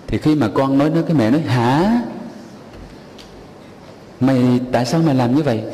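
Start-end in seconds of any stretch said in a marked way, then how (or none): 1.4-5.6 a quick, sharp scolding, higher pitched; mother scolding her son, hurried and angry. Acted. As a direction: scold the child in sudden anger. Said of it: "Mẹ hét lên một tiếng".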